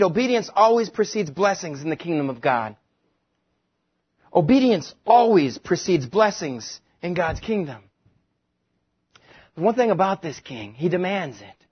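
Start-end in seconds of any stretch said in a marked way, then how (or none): 4.3-7.8 slower, every word weighed; slow emphatic repeat. Shown as a demonstration. Preacher repeats the sheet's point slowly and firmly. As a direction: spell out the point for the congregation. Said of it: "The next thing on your sheet".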